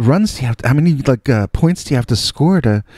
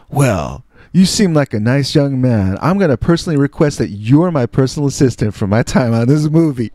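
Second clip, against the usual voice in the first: Jim Brown; 3 semitones higher than usual. Retold or imitated. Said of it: "And he's like".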